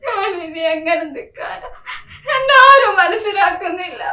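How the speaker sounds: crying through broken words; despairing sobs. Acted. Wife alone after abuse, sobbing in despair.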